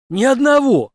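high, loud cheerful denial; Henry amused answering Zack; smiling exclamation. Acted. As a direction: grin and say it. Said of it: "улыбнулся Генри".

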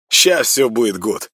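high upbeat promise; breezy and sure; cheerful boast. Acted. (весело)

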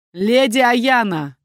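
loud, slow, booming name; enraged duke thundering her name; thunderous. A narrator's reading. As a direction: roar it so the windows rattle. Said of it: "произнёс так, что стёкла окон зазвенели".

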